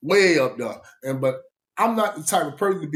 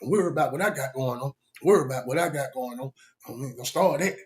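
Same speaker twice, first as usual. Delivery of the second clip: South Georgia drawl; faster than usual. Retold or imitated. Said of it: "That's how you talk".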